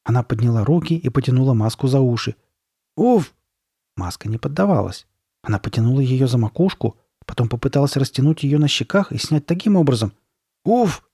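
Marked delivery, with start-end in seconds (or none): 3.0-3.3 short high "oof" of effort; high huff while tugging; effort grunt. Acted. Тянет маску, та не поддаётся. 10.6-11.0 high "oof" of straining; high-pitched tugging noise; effort grunt. Acted. Снова тянет маску изо всех сил.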